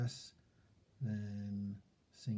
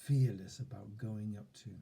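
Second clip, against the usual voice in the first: upbeat affirmation. Shown as a demonstration.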